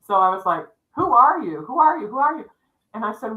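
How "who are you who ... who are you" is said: high, urgent repeated question; retold alarm, pitched up and insistent; startled questioning. Woman calling to an unseen crying child, startled.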